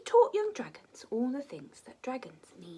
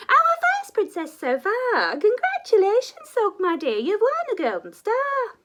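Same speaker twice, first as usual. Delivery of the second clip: loud teacher dragon; 11 semitones higher, 11 dB louder than usual. Acted. Teacher dragon booming instructions to her young class. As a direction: proclaim it like a grand dragon teacher.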